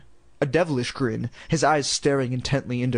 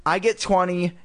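dummy voice; 4 semitones higher, slower than usual. Acted. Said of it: "Lindy made Slappy say".

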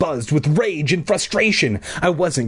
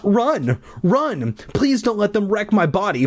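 high urgent pleading; frantic plea; 9 semitones higher than usual. A narrator's reading. Bee watching bullies near its old body, frantic plea. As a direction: beg from up high without shouting.

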